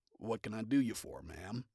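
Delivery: low, slow drawling man. Acted. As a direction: drawl it out lazily. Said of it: "Stryker drawls".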